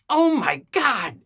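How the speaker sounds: high, loud, drawn-out alarm; hammed-up shocked exclamation; acted freaking out. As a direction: re-enact a panicked cry. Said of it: "I was freaking out".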